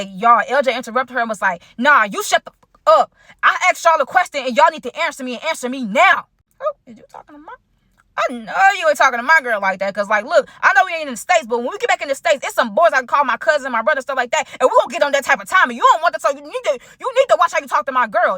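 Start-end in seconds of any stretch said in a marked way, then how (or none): 1.8-6.3 aggressive shout. Retold or imitated. LJ snapping at the three girls, a mock aggressive bark. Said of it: "he was speaking so aggressive". 6.6-18.4 raised, quick mock clapback; a hammed-up tough threat, pitched higher; defiant comeback. Narrator warning LJ off her girl in her head, a mock defiant clapback. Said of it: "That's what I was saying in my head".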